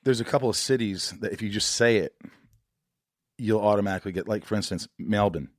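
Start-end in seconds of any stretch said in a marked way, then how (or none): 5.0-5.5 Aussie "Melbourne", second syllable swallowed to "bin"; Australian accent. Shown as a demonstration. American host demonstrating for listeners, Australian accent. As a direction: say the city the Australian way. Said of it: "you wanna learn an Australian accent".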